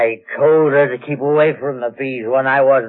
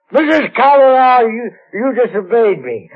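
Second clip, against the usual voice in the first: retold scolding; 9 semitones higher, 4 dB louder than usual. Retells his scolding of his employer.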